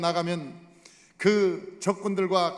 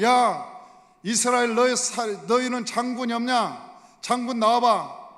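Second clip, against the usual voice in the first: lightly voiced Goliath, louder; Goliath's challenge; 2 semitones higher, 4 dB louder than usual. Goliath challenging Israel's army, loud taunt. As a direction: call out a challenge to the enemy ranks. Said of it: "골리앗이 말하기를".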